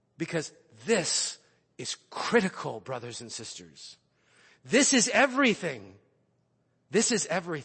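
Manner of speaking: increasingly impassioned, fired-up, swooping preacher-style emphasis. Speaking to his brothers and sisters, getting worked up. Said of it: "You can tell I'm getting a little worked up".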